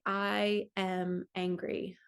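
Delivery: slow, deliberate "I am angry" with the weight on each word; slow affirmation. Shown as a demonstration. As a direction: own the feeling as you say it, slowly. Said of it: "I can say".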